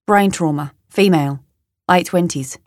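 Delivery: put-on terse report in an Australian accent. Tom briefs the woman, Australian accent. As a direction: list the facts as an Australian man. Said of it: "He sounds Australian".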